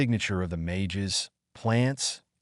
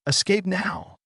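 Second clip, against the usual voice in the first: high urgent warning cry; urgent shout; 9 semitones higher than usual. A narrator's reading. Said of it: "Loke shouted".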